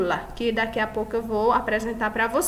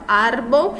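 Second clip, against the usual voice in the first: "Árbol" stressed on ÁR, rising at the end; stress on first syllable; 3 dB louder than usual. Shown as a demonstration. Teacher repeating the example, "Árbol" stressed on ÁR. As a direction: lean on the ÁR of "Árbol". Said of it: "é a sílaba mais forte".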